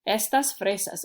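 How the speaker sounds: EStas, punched on the E; stress on first syllable. Shown as a demonstration. Teacher repeats the example, stressing the E of Estas. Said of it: "the E gets the punch".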